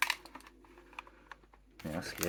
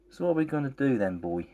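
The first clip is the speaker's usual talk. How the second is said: lightly voiced female friend; 5 semitones higher, 3 dB louder than usual. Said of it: "she asked".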